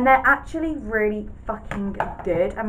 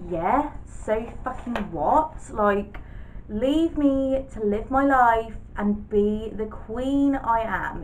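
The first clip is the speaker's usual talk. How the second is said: mock sassy; 4 dB quieter, slower than usual. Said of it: "I'm proper sassy in this one".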